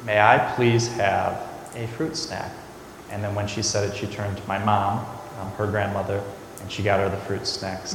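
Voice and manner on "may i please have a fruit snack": slow, measured model of good manners; properly polite request. Retold or imitated. Mom showing niece how to ask, slow and proper. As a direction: say it carefully, as if teaching a child. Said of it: "say it rightly".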